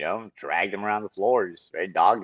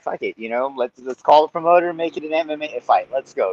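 louder, higher, pumped-up dare; fired-up challenge; 7 semitones higher, 6 dB louder than usual. Retold or imitated. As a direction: hype yourself into the fight. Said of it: "I was like".

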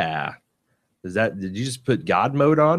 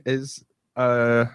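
ordinary delivery

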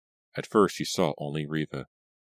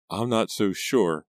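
groaning; 5 semitones higher, 3 dB louder, slower than usual. Acted. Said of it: "Pam groaned".

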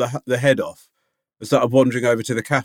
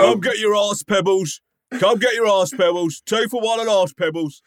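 higher hawker's call; market vendor; 8 semitones higher than usual. Pretend. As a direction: hawk it like a stall seller. Mock vendor calling out.

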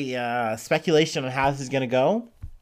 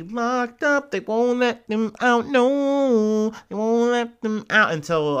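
higher, louder gloating; gleeful; 10 semitones higher, 4 dB louder, slower than usual. Real, not acted. Vlogger gloating that the brothers stay jailed, high gleeful voice. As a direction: relish it, voice jumping up with glee.

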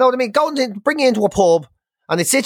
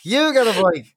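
Oprah Winfrey giveaway. Pretend. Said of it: "You're like Oprah Winfrey".

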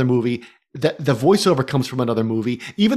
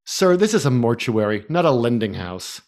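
snooty mortician; 4 semitones lower than usual. Retold or imitated. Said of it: "And he says".

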